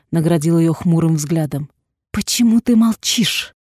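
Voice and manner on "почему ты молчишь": sharply raised, louder question. A narrator's reading. Narrator raising her voice at Katie. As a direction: demand an answer, voice up. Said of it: "повысила я голос".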